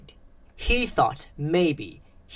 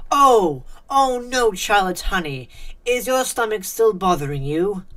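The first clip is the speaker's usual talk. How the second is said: higher, louder motherly alarm; concerned mom; 4 semitones higher, 6 dB louder than usual. A narrator's reading. Alec's mom to Charlotte who just threw up, concerned. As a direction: fuss over a sick child with raised pitch.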